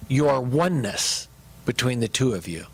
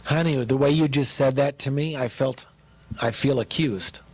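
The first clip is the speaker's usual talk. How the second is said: gentle and calm; 2 semitones lower than usual. Shown as a demonstration. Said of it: "you can just say".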